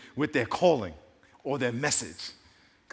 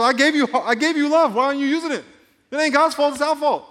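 louder, higher voice of God pleading; God speaking; 10 semitones higher, 7 dB louder than usual. Retold or imitated. Preacher voices God questioning humanity: higher, louder plea. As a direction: let God's question ring out, much higher. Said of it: "He goes".

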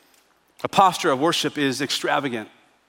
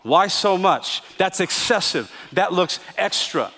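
indignant; slower than usual. Acted. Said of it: "with that tone, indignantly".

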